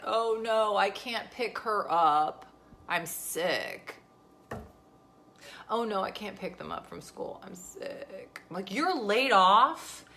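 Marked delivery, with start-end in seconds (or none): 0.0-8.4 whiny sick husband, drawn-out; mock sick whine. Mocking her husband playing sick to her. 8.7-10.1 slow, high sarcastic disbelief; mock disbelief. Wife retorting to husband's excuse with mock disbelief.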